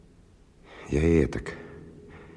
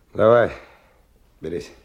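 urging call; 3 semitones higher, 5 dB louder than usual. Acted. Stalker urging Kirill to grab the load, called out. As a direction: call out to get him lifting.

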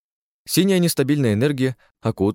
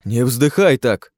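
indignant; 3 semitones higher, 5 dB louder, slower than usual. Acted. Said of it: "возмутился я".

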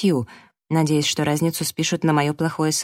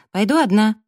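higher, louder curt retort; snapping; 6 semitones higher, 5 dB louder than usual. A narrator's reading. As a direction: shut him down firmly. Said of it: "огрызнулась я".

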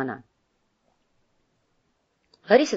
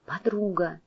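whispering on the phone; 6 dB quieter, slower than usual. Acted. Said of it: "прикрыв трубку ладонью".

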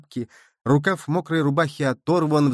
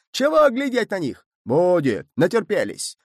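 much higher, loud raging crowd; furious yelling; 5 semitones higher, 4 dB louder than usual. A narrator's reading. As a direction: roar at them in fury. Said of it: "яростно заорали". (яростно орут, намного выше)

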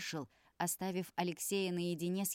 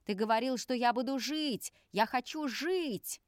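desperate shout; 6 semitones higher, 5 dB louder than usual. Acted. Son yelling at father.

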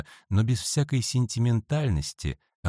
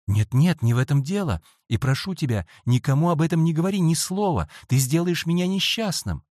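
anxious pleading; 8 semitones higher, 3 dB louder than usual. A narrator's reading. Boy pleads for silence.

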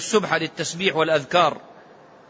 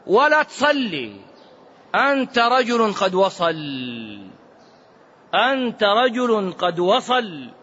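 satan's coaxing; much slower than usual. Retold or imitated. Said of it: "قال".

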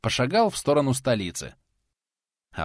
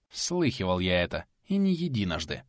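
icy voice; 3 semitones lower, 4 dB quieter than usual. Acted. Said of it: "ледяным голосом отвечал тот".

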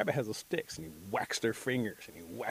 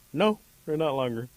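higher, louder "no" in a storyteller's voice; mock firm denial; 5 semitones higher, 8 dB louder than usual. Bear corrects the rabbit, mock firm denial. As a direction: correct him loudly, lightly acted.

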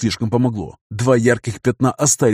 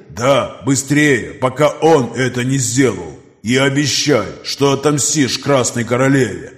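dying creature voice; slower than usual. Acted. Dying mutant urges him on.

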